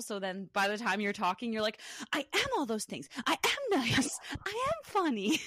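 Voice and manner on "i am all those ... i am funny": high, swooping proud declaration; hyped-up self-affirmation. Pretend. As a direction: proclaim it high, as the hyped-up friend. Voices friend's hyped-up self-affirmation.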